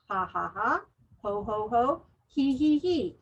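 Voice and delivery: spoken ha ha, ho ho, he he syllables, only lightly laughed; name each laughter sound, half-laughing; demo laughter sounds. Shown as a demonstration. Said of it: "say one of the laughter sounds".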